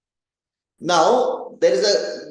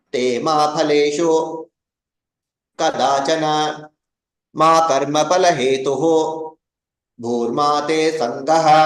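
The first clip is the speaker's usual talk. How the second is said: verse split into phrases with pauses; recited in phrases; 2 semitones lower than usual. Shown as a demonstration. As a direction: pause at each phrase break. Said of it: "Again, I can do the same thing".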